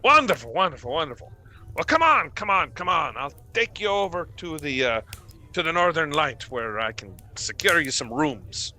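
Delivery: high, pleased and hurrying; eager host. Acted. Trovis urging the party to follow, high and eager. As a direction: bustle them along happily. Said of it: "Trovis leading party out".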